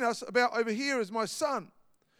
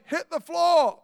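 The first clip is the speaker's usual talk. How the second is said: mock yell, higher and louder; retold gunman yell; 5 semitones higher, 5 dB louder, slower than usual. Pastor imitating bank robbers yelling at customers, mock shout. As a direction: bark it like a robber, hammed up. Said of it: "They're screaming to everybody".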